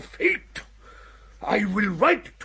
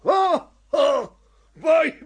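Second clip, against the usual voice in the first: a burst of pleased astonishment; delighted exclamation; 3 semitones higher than usual. Acted. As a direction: cry out in delighted surprise. Delighted at recognising the quotation.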